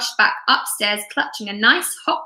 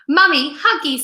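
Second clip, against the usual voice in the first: put-on screaming baby; 4 semitones higher, 3 dB louder than usual. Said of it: "screamed the baby".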